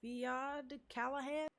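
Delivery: slow, halting over names; stumbling slowly through Irish names; slow careful reading. Real, not acted. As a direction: sound out the hard names slowly. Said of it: "Hey, listen, I'm trying".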